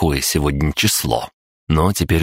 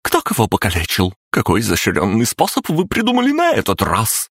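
tense, raised, on the edge of shouting; barely held-back anger; 6 semitones higher than usual. A narrator's reading. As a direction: scold them, fighting not to yell. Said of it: "громко, едва сдерживаясь, чтобы не перейти на крик".

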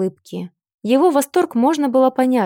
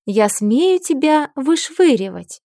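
slow, sugary threat; sweetly menacing; 4 semitones higher, slower than usual. Acted. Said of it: "ласково улыбнулась я".

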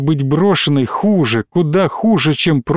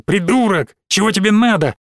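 shout; 5 semitones higher than usual. A narrator's reading. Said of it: "крикнул".

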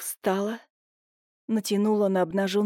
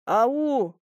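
long, restrained halloo; loud call; 3 semitones higher than usual. A narrator's reading. Major shouts into the empty yard, a restrained call. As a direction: call out into emptiness, mildly raised. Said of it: "громко крикнул он в пустоту".

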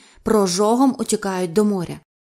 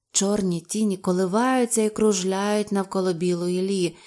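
ordinary delivery

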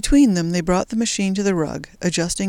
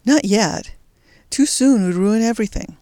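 pressing, louder warning; urgent; 4 semitones higher, 4 dB louder than usual. A narrator's reading. Jules warns Louise off the handle, urgently. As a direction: stop her hand, fast and urgent. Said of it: "he gasped".

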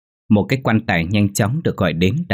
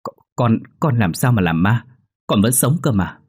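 surprised stammer; 3 semitones higher than usual. Acted. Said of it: "bác Huyễn mới ngạc nhiên".

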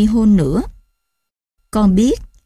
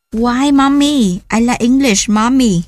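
put-on whiny child; 4 semitones higher, slower than usual. Child pleading for English.

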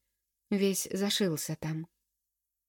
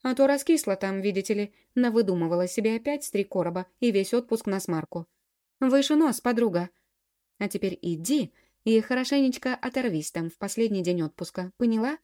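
stern tone; 3 semitones higher, 5 dB louder than usual. Acted. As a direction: scold her firmly like a big sister. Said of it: "И строгим тоном добавила".

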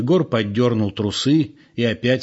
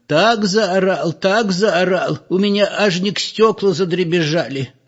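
put-on old woman; 8 semitones higher than usual. A narrator's reading. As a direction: marvel like an old village gossip. Old woman voiced telling the gossip.

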